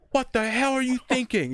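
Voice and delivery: high loud mock yell; retold yell. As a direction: yell it in his face. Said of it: "I was just screaming at him".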